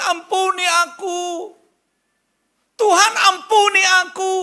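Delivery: high, drawn-out wailing shout; desperate pleading cry. Acted. Sinner kneels begging God for forgiveness, desperate cry. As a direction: cry out at full force for mercy.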